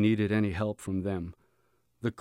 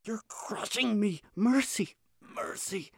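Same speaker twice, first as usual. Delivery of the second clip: weak, whispered plea, almost gone; faint rattling whisper; 11 semitones higher than usual. A narrator's reading. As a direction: breathe it out, crushed and fading. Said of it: "The same faint voice, the same rattle".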